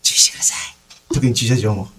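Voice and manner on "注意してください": whispered. Acted. Unvoiced warning.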